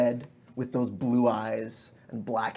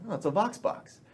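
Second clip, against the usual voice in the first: Embalar discovering; 7 semitones higher, 3 dB quieter than usual. Acted. Embalar recognises the Vox box.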